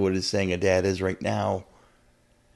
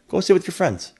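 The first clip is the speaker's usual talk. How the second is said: retold fatherly urging, pitched up; higher, encouraging nudge as a quoted dad; not being mean; 9 semitones higher than usual. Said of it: "he's not even being mean about it".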